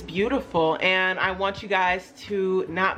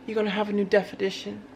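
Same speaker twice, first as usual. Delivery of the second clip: put-on accented alter ego; 6 dB quieter than usual. Alter ego coaxing viewers to become a new woman, accented persona voice. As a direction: play the accented alter ego, soft and unhurried with long pauses. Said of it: "is always in a different accent".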